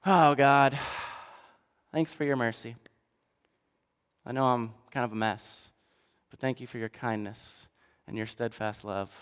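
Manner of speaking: mild contrite whisper-like prayer; humble prayer. Acted. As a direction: pray meekly, barely above a murmur. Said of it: "a man who comes up".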